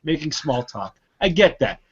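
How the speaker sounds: high-pitched, worked-up rant at a chatty clerk; exasperated rant. Retold or imitated. Annoyed customer ranting about a clerk who joked three times, high and exasperated. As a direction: vent it, voice up and incredulous.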